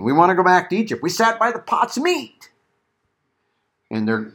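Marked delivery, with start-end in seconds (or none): 0.0-2.5 acting out the people's complaint, raised pitch at the end; mock complaining. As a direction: lightly imitate grumbling people. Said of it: "they're complaining".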